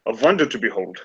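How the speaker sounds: put-on French accent slipping into German; a proud French scholar, accent drifting. Remy boasting of Paris libraries, accent drifting German. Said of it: "I keep going German".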